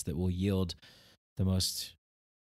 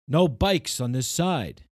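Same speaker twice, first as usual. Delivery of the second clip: grumpy walker; 6 semitones higher, 6 dB louder, slower than usual. Retold or imitated.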